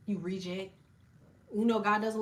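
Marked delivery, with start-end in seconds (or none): 0.1-0.7 trash talk to demons. Shown as a demonstration. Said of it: "talk so dirty to demons".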